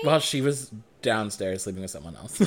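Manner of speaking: laughing through the words. Real, not acted. Laughing at own story.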